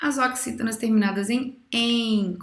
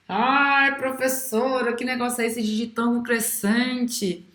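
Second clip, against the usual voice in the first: pretend student; 2 semitones higher than usual. Student voice asking teacher.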